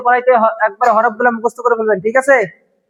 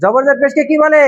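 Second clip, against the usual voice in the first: quick; much faster than usual. Shown as a demonstration. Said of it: "তাড়াতাড়ি করতে হয়।".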